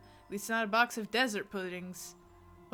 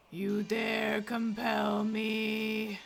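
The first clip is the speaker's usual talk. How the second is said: demon voice; much slower than usual. Acted. Demon voice in game.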